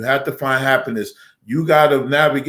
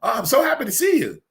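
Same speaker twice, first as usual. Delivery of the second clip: much higher, sugary mock white greeting; 11 semitones higher, faster than usual. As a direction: ham up the sweet polite welcome. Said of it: "I want the white voice".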